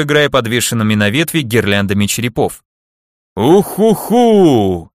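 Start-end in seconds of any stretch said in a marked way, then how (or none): 3.4-4.9 slow, drawn-out ghostly hoot, higher; spooky undead wail. Acted. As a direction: moan it like a mocking ghost. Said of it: "зловеще протянула девушка Барт".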